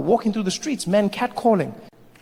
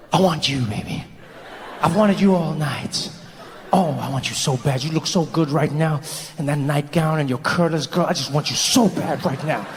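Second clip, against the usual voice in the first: low, needy come-on; hammed-up lustful pillow talk; amorous bedmate; 5 semitones lower than usual. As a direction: plead with a sleepy partner in bed. Amorous man pleading in bed.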